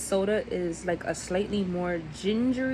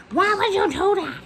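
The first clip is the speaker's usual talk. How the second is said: put-on old lady voice; 10 semitones higher, 4 dB louder than usual. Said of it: "And it's like, like".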